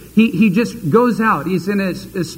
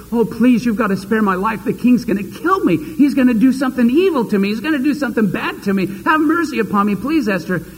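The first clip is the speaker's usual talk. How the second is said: hammed-up pleading, rushing through the threats; a groveling man begging the queen for mercy, lightly acted; mock desperate plea, speeding up in panic; begging for his life; 3 semitones higher, faster than usual. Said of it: "he's shriveling before her and he says".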